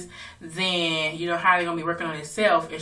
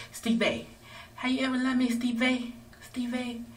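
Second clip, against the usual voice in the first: mock pleading; 7 semitones higher, 3 dB quieter than usual. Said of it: "She be like".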